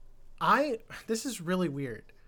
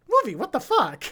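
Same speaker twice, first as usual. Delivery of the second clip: high, loud, incredulous reaction; mock shocked outburst; 7 semitones higher, 5 dB louder than usual. Reviewer scolds the movie for its ending, mock shock. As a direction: address the film in loud, high disbelief.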